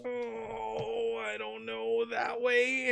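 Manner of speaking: quiet frightened whimper; soft, scared answer to the cop. Acted. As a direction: shrink away and point. Witness whimpering.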